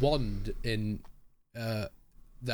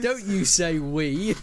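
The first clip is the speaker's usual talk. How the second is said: mock imitation; 4 semitones higher, 5 dB louder, slower than usual. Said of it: "don't use the word we".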